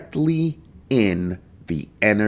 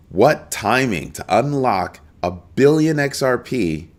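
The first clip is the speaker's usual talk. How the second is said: incredulous emphasis; 5 semitones higher, slower than usual. Real, not acted. Incredulous at Ripple timing.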